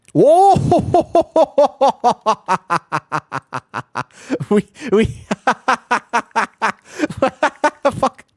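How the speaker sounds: sudden loud high yelp of surprise; startled whoa. Real, not acted. Streamer yelps as the raid suddenly gets wiped. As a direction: jolt out a shocked whoa.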